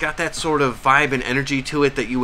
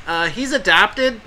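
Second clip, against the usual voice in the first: deadpan quip; 7 semitones higher, slower than usual. Pretend. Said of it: "And I'll be like".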